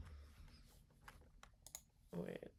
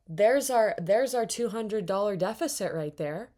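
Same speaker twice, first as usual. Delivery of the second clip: exasperated shout; 2 semitones higher, 8 dB louder than usual. Real, not acted. Outraged at the park deficit.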